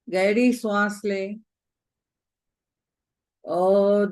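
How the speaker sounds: gentle guided meditation with long pauses. Real, not acted. Teacher guiding the group through breaths and gratitude, calm meditation voice. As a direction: lead the breathing calmly, phrase by phrase.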